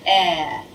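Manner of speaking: "eh" said with a wide smile; smiling short e. Shown as a demonstration. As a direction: smile and sound out "eh". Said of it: "look at themselves in the mirror and say".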